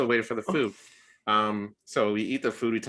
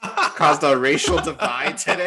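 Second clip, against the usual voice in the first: higher, louder sarcastic whine; mock sarcastic apology; 6 semitones higher, 4 dB louder than usual. Answering the date's request for the bill, sarcastic mock apology. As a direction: drip sarcasm, half laughing.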